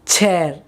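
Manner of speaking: "chair" with pressure on the ch; aspirated ch. Shown as a demonstration. Teacher gives an English example, "chair" with aspirated ch. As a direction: push a puff of air into the start of "chair". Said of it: "you pronounce it with pressure".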